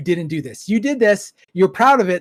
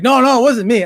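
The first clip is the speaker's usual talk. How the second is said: mock denial; 6 semitones higher, 6 dB louder than usual. Retelling the leaker's denial.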